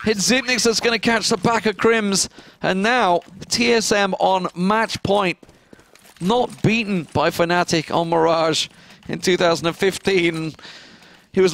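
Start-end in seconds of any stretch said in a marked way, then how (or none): 0.1-5.4 higher, urgent live play-by-play; excited clutch call. Real, not acted. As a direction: lean in, the round hangs on it.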